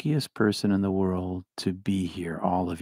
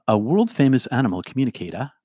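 Boston accent; 4 semitones higher, 5 dB louder than usual. Shown as a demonstration. Says it r-less, then repeats it plainly.

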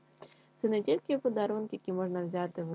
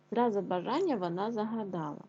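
tongue twister read. Shown as a demonstration. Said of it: "скоромовочку".

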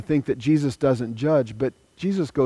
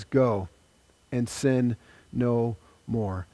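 quiet, slow, low repeat of Go and sin no more; quiet solemn command; 3 semitones lower, 5 dB quieter, slower than usual. Acted. Preacher repeats Jesus's words to the woman, quiet and solemn. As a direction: let it land softly and solemnly.

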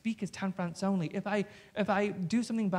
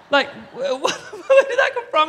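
high, loud, stammering through a laugh; the producer's high, loud laughing shock; laughing disbelief; 12 semitones higher, 12 dB louder, slower than usual. Retold or imitated. Producer's startled, laughing reaction.

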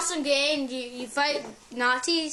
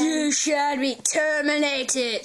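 Terminator voice; much slower than usual. Acted. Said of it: "sounded more like the Terminator".

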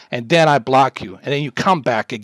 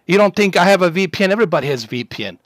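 higher, louder and fast, scoffing; angry fast retort; 4 semitones higher, 4 dB louder, faster than usual. Real, not acted. Streamer scoffing at the troll's VPN, fast angry retort. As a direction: snap it back in a rush.

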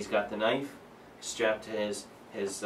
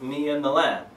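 "lad" pressed, louder; stress on lad; 3 semitones higher, 4 dB louder than usual. Shown as a demonstration. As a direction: lean hard on "Me and the lad". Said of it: "he said".

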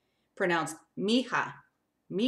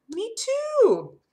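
whispered aside; 7 dB louder than usual. Real, not acted. Aside while reading a story.

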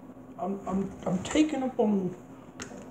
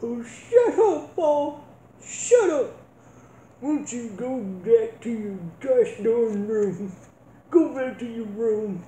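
Ma yelling; 3 semitones higher, 4 dB louder than usual. Acted. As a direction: send him back to his room, fed up. Ma yells at Paul.

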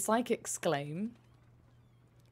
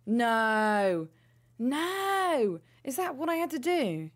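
higher, louder cries of disbelief; shocked no; 5 semitones higher, 6 dB louder, much slower than usual. Real, not acted. Dismayed by the glue answer, loud disbelieving cries.

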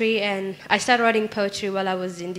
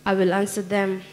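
poem recitation. Acted. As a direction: recite it line by line, letting the refrain land. Recites her own poem.

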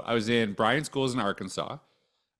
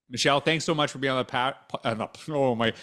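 slipping into a Minnesota accent; light Minnesota accent creeping in; 2 semitones higher than usual. Real, not acted. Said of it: "I'm getting a Minnesota accent".

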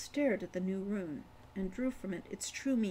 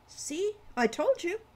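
put-on triumphant boy; 9 semitones higher, 4 dB louder than usual. A narrator's reading. Ren voiced.

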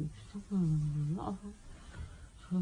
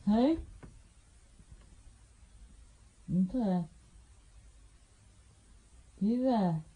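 loud call to the device; 5 dB louder than usual. Real, not acted. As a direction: call out to check. Calling out to Alexa.

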